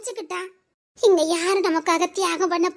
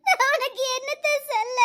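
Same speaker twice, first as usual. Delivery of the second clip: talking through tears; half laugh, half sob; crying; 3 semitones higher than usual. Acted. Woman to her friend, crying through the words.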